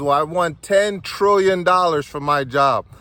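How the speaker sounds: loud, high, stretched-out price demand; name your huge price boldly and slowly; confident demand. Retold or imitated. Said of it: "Now I'm feeling all swagnificent".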